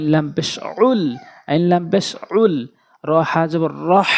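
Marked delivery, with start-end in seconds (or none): 3.0-4.1 র হা জবর রহ with the হা pressed hard from the throat. Shown as a demonstration. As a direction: push the হা in রহ out with force. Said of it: "চাপ দিয়ে উচ্চারণ করবেন". (হা চাপ দিয়ে উচ্চারণ)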